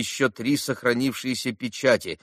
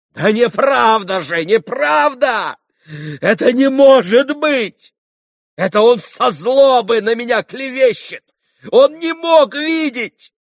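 gasping for breath; 11 semitones higher, 8 dB louder than usual. A narrator's reading. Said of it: "Задыхался Митя".

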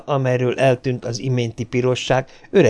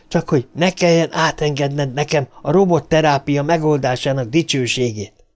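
higher, heated accusation; angry tirade; 5 semitones higher than usual. Acted. Bogert attacks Lanning in a quarrel: higher, heated tirade. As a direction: lash out at the old man.

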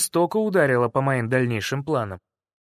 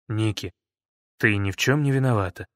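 lower, gentle reassurance; soft voice; 6 semitones lower than usual. Acted. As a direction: speak tenderly to her. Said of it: "мягкий голос".

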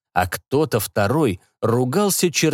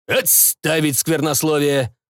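grumbling; 4 semitones higher than usual. Acted. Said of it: "буркнул Пак".

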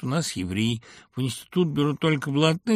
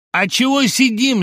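feigned puzzlement; 12 semitones higher, 10 dB louder than usual. A narrator's reading. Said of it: "сделанным непониманием спросил".

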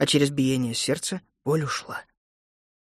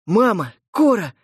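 glad shout to family; overjoyed; 6 semitones higher, 5 dB louder than usual. Acted. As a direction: call out with joy. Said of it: "обрадовался Лука".

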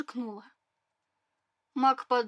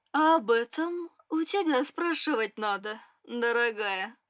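reproachful curiosity. Acted. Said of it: "тем же укоризненно заинтересованным тоном".

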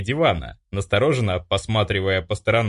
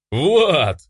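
louder, higher joyful cry of the name; joyful exhale; 5 semitones higher, 5 dB louder than usual. Acted. Hero greeting Vlad after a year apart, joyful and louder. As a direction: breathe out the name with relief and joy. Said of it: "радостно выдохнул я".

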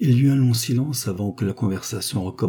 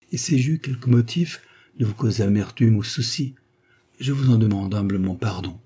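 a hint of a tender lover, lightly voiced; tender declaration; 3 semitones higher than usual. Count to lady, a lightly tender declaration of love. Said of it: "une déclaration fort tendre".

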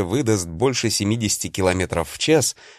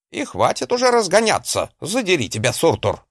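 barking; 8 semitones higher than usual. Acted. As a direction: bark it at him in anger. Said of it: "гаркнул Гринольф".

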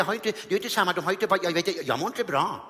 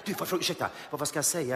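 softer, anxious asking; nervous whisper; 7 dB quieter than usual. Retold or imitated. Comedian asking a musician quietly what to say. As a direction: lean over and ask quietly. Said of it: "Så".

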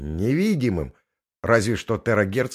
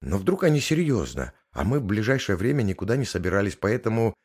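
flustered. Acted. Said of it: "сбивчиво объяснила Макс".

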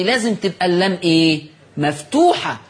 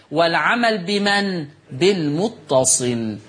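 slow, measured Classical Arabic read-aloud; formal commentary reading; slower than usual. Real, not acted. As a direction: read the note out deliberately, stretching the long vowels. Reads the written commentary aloud. (قراءة متأنية بالفصحى)

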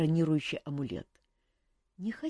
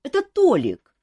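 put-on indignant boy; 12 semitones higher, 9 dB louder than usual. A narrator's reading. Boy blaming someone else.

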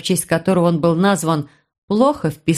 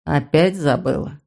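taunting man; 4 semitones lower than usual. Acted. Brother taunting.

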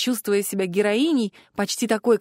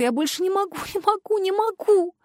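rising higher and higher into panic; desperate cry; 8 semitones higher than usual. A narrator's reading. The heroine clinging to the trunk, rising desperate panic. Exhausted heroine despairs on tree.

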